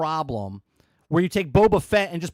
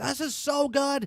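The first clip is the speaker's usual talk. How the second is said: mock-excited kid voice, higher and quieter; 9 semitones higher, 5 dB quieter than usual. Retelling a child's joy at a new game, imitating excited son. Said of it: "he was so excited".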